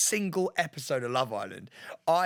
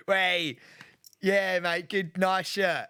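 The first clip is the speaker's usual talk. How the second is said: imitating matey lad chat; mock blokey small talk; lad banter; much slower than usual. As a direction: toss it out like one of the lads. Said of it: "Pete turns to lad banter".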